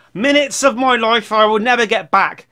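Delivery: high, loud put-on whine; mock complaining commenter. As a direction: overact the aggrieved viewer.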